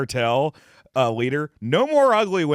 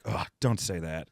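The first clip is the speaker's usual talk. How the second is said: a much softer Irish wife's shushing plea; hushed superstitious plea; 9 semitones lower, 8 dB quieter than usual. Retold or imitated. Wife and friend hush talk of death, softly pleading. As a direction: softly hush it as if saying it might make it happen. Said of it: "which is like".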